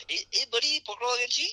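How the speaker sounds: Boss Man impression. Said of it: "you got Boss Man on video".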